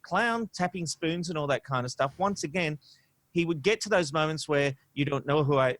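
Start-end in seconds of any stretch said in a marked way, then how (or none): 4.9-5.8 barely-there attempt at a Doctor's accent, nearly his own voice; failed Sylvester McCoy accent. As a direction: try the accent and give up on it almost at once. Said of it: "attempt a Sylvester McCoy accent and failing miserably".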